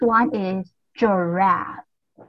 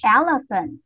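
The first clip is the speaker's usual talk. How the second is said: leader call. Shown as a demonstration. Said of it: "everyone repeat after me".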